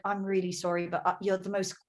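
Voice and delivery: soft, low British accent, imitating a suitor; lightly imitated British charmer, softly spoken. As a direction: quote him in a gentle mock-British voice. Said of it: "with his cute little British accent".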